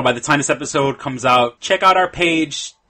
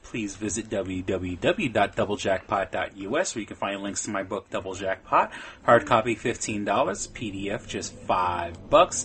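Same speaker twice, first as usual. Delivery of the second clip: lower, smooth radio sign-off; announcer voice; 5 semitones lower, 7 dB quieter than usual. Acted. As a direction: read it like a show announcer. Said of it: "that sounds like an announcer".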